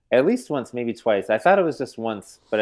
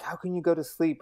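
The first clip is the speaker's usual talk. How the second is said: incredulous panic; 8 semitones higher, 4 dB quieter than usual. Retold or imitated. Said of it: "he's just going nuts".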